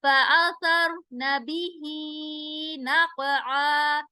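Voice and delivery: very slow chanted tajweed; Quran recitation. Shown as a demonstration. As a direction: draw out every syllable. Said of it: "क़ाफ पर हम कलकला करेंगे".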